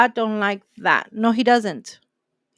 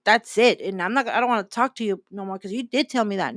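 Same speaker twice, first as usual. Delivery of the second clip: mock proud grudge. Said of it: "let my pride be like".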